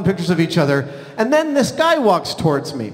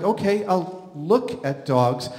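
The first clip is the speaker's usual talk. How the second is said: slow, soft, reluctant concession; hedged, drawn-out okay; retold grudging agreement; 5 dB quieter, slower than usual. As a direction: agree warily, spacing out "look at dogs". Retells his reluctant agreement to wife.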